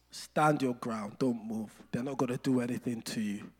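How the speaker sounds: low, quiet, steady reassurance; calm protector. Acted. Protector tells a bullied boy to stand his ground, calm and low. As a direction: hold firm in a soft, low voice.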